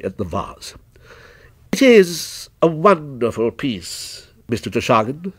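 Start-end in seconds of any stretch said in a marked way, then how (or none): 1.7-5.3 slow, measured praise; lightly voiced employee vouching for the goods; deliberate show of admiration; shop witness, admiring.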